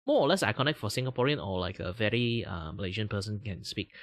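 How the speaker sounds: a light Malaysian English lilt, quick; lightly Singaporean-Malaysian English delivery; Malaysian English accent. Shown as a demonstration. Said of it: "if I want to sound like Asian people".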